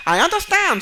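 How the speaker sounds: student answering the instructor in a high squeak; squeaky student voice. Retold or imitated. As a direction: voice the hapless student, high and meek.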